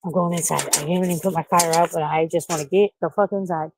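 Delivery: quiet real panic; frightened, under the breath at first; panicking. Real, not acted. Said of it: "I'm panicking".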